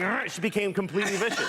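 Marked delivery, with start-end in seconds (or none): 0.0-0.3 dog growl. Retold or imitated. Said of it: "she starts going".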